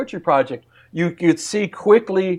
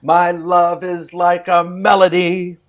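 poem recital; slower than usual. Shown as a demonstration. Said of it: "I'm gonna say a line of poetry".

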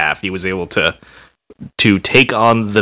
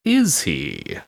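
Skeletor voice; 7 semitones higher, much slower than usual. Acted. Teasing Skeletor voice.

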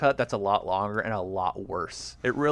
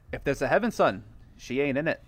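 Pete Postlewaite impression. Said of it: "Give me your best Pete Postlewaite in that scene".

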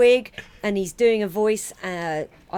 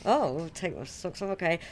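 softer acted reply, going along; compliant house guest; 2 semitones lower, 5 dB quieter than usual. Guest answering the host about socks, mildly compliant reply. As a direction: play the guest meekly agreeing. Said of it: "So you're like".

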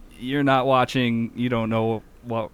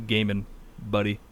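normal talking voice

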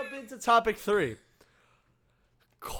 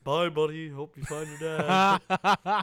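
narwhal voice; 3 semitones lower, slower than usual. Retold or imitated. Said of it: "the narwhal from, uh, from Elf".

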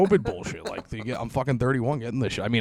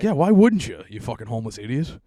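mocking retort; 4 dB louder than usual. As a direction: scoff at him for being picky. Mocking reply to homeless man.

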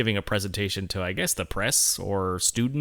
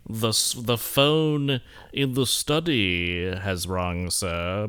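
coy; much slower than usual. Shown as a demonstration. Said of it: "Be a little coy about it".

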